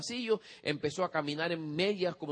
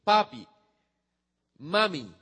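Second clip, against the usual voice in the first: put-on proud child; 3 semitones higher, 5 dB louder, much slower than usual. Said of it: "el muchacho vino y dijo".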